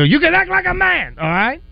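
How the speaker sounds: mumbling Godfather voice; Marlon Brando impression. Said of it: "I'll go".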